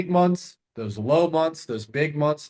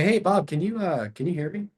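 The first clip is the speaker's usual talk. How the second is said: light, higher, questioning; curious tone; 5 semitones higher than usual. Shown as a demonstration. Caller checking Bob can hear, calm and curious. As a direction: ask like you really wonder. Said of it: "Notice I'm using a curious tonality".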